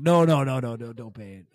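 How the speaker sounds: urgent plea, fading; Ronald pleading. Retold or imitated. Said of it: "Ronald's like".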